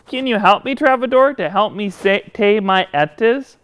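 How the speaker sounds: puppet voice turning S into T, as in "etas"; lisp, T for S. Pretend. Puppet asking host for help, "etas" lisped with T for S. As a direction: say "say" as "pay" or "tay", S sounds as T. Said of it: "I can't pay my etas".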